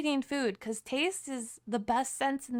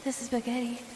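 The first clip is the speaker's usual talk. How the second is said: posh British. Acted. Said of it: "The British one sounds so posh".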